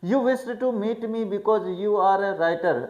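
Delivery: slow, deliberate reading of the text aloud; careful classroom read-aloud; slow English reading. A narrator's reading. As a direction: read each English phrase slowly for the class. Slow read-aloud of novel passage.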